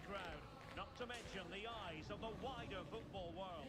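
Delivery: rousing broadcast opener over the crowd; match build-up. Acted. Commentator welcoming viewers on match day, rousing build-up. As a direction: set up the big match with relish.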